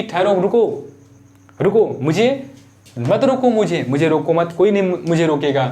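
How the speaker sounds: acting out an urgent plea not to be stopped; lightly voiced queen demanding a hearing; mildly insistent, cutting off objections; insistent Kaikeyi. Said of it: "तो कैकेयी कहती हैं".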